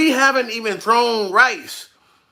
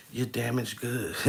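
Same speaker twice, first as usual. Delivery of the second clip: Kevin Samuels; 13 semitones lower, 14 dB quieter than usual. Retold or imitated. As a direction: talk down to her low and hushed.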